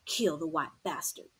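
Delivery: quiet, tired venom; soft and cold. A narrator's reading. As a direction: say it gently though it's cruel. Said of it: "And real soft".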